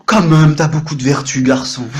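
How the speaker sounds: loud opening, playful self-congratulation; mirror self-praise. Acted. Man praises himself in the mirror, mock admiring. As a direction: exclaim it to yourself in mock admiration. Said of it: "Je me regarde dans la glace, je fais".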